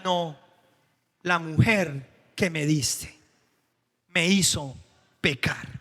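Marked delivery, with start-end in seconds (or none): 1.2-5.8 Adam blaming his wife with scorn; contemptuous blame. Retold or imitated. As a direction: spit out the blame on her. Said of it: "cómo habla con desprecio".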